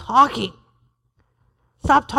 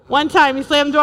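ordinary talk, nothing marked

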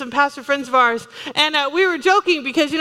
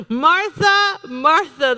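"Martha" raised, then "Martha" falling; gentle rebuke; 2 semitones higher, much slower than usual. Retold or imitated. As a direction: call "Martha" up, then set the second "Martha" down. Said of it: "the Lord answered".

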